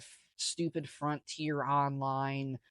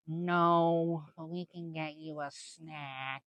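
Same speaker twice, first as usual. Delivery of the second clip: mock flight attendant; 2 semitones higher, slower than usual. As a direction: imitate an attendant politely refusing. Attendant quoted refusing passenger.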